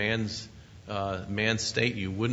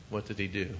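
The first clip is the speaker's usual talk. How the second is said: ordinary talk, nothing marked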